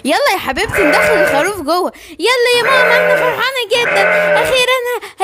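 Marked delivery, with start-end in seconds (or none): 2.2-5.2 put-on higher, childlike voice, eager; excited little girl. Daughter begs her mother to bring the sheep in, eager and childlike. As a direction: bounce with joy like a small girl.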